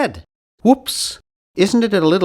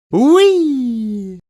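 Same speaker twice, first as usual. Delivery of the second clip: gleeful; 6 semitones higher, 3 dB louder than usual. Acted. Playful exclamation.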